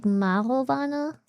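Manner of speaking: "marijuana" said as "mah-ro-wah-na"; English pronunciation. Shown as a demonstration. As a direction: say "marijuana" with a rounded "wah" and no y-glide. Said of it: "English pronounces it more like".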